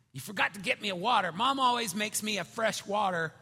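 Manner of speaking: lightly voiced kid's loud grievance; complaining child. Daughter scolding dad over her water, lightly mimicked complaint. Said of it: "and she says".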